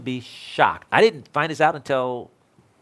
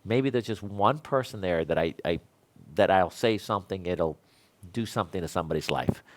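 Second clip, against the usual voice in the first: quiet prayer; 6 semitones lower, 4 dB quieter than usual. Retold or imitated. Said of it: "I'm praying and I'm praying".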